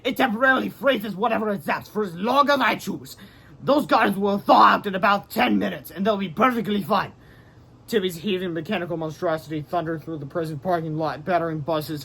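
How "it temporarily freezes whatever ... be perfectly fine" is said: lightly voiced, higher, breezy; casual villain. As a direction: brush it off like a smug villain. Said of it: "said Timmy".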